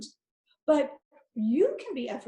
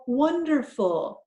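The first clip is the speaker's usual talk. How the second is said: wonderful drawn out slowly and higher, pleased; delighted recognition; 4 semitones higher, 5 dB louder, slower than usual. Shown as a demonstration. Teacher discovering the word with the class, slow and delighted. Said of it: "it sounds like the word I know".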